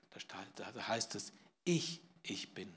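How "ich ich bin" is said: doppeltes „ich“ langsam und gewichtig; Betonung auf ich. Shown as a demonstration. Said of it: "Das ist so eine starke Betonung". („ich, ich“ nachdrücklich langsam)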